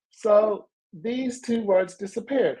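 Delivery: ordinary talk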